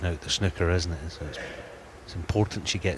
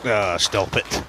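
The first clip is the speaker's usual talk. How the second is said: amazed; 4 dB louder, much slower than usual. Real, not acted. Reacting to brilliant play.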